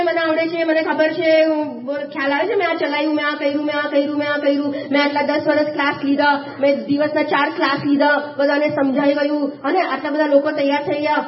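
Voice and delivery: self-important list in an even monotone; imitating a know-it-all's running tally; mock boasting. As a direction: reel off achievements on one note. Acting out a proud doer's boasts.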